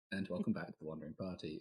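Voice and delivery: hint of a polished presenter read; professional host voice. Host welcoming listeners, lightly professional presenter tone. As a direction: sound mildly professional and proper. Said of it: "This is me being professional".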